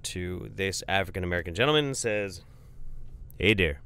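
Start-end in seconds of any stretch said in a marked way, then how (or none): 3.4-3.8 put-on Northern Michigan, Manitoba-ish accent; Fargo accent. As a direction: greet in a crazy Fargo accent. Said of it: "in his crazy Northern Peninsula, Manitoba-ish sounding Fargo accent".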